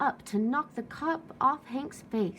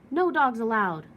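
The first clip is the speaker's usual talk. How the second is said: louder gruff yell; 7 dB louder than usual. Acted. Cactus yelling at the passing coyote. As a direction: bark the rule out. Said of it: "Hank yelled".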